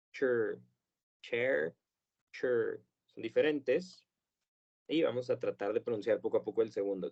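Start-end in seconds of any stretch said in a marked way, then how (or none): 0.1-0.6 chur with a short schwa r; schwa ending chur. Shown as a demonstration. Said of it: "vamos a decir". 1.2-1.8 chair with an open vowel, rising; wrong full chair. Shown as a demonstration. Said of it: "En lugar de". 2.3-2.8 chur with a short schwa r; schwa ending chur. Shown as a demonstration. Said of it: "vamos a decir".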